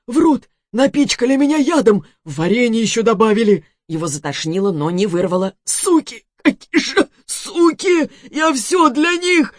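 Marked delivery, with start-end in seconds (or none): 0.1-3.6 angry accusation. Acted. Angry accusation while poisoned. 5.6-9.5 bitter furious cursing. Acted. Betrayed man cursing women.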